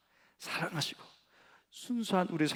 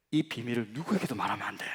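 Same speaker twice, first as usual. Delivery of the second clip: secretive whisper; 4 semitones lower, 4 dB quieter than usual. Retold or imitated. Father tells secret. (비밀스럽게 속삭이며)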